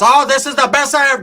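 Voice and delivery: high, exaggerated rapture; mock ecstatic tia. Tia overheard from the back room, mock ecstatic high voice.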